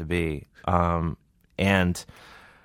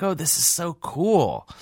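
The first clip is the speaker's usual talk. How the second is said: high, slow gush of wonder; starstruck idiot; 10 semitones higher, slower than usual. Retold or imitated. Comedian gushing to the prison guards, high slow wonder. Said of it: "I was like an idiot".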